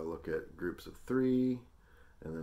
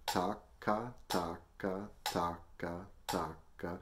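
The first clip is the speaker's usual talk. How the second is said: even pairs tightening into quicker triplets; twos into threes. Shown as a demonstration. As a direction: chant four twos, then four threes, on a steady beat. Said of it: "four counts of each".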